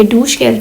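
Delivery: डूश जेल said as German Duschgel, hard g; German pronunciation. Shown as a demonstration. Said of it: "German में". (डूश जेल का German उच्चारण, "ग" की आवाज़ से)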